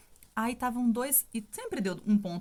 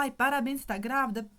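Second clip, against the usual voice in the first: higher and louder, bursting with joy; loud excited congratulations; 4 semitones higher, 3 dB louder than usual. Retold or imitated. Retelling her coworker's congratulations, loud and overjoyed. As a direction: cry it out happily as the friend did. Coworker's words repeated, moved.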